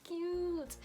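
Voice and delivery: high, drawn-out cooing; retold squeal of cuteness, stretched out; gushing. Retold gushing over matching chains.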